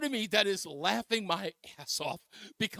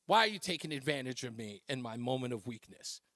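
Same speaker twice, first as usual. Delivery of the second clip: mock wounded plea; 9 semitones lower, 7 dB quieter than usual. Husband whining to his teasing wife, mock wounded. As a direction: lower and softer, hammed-up self-pity.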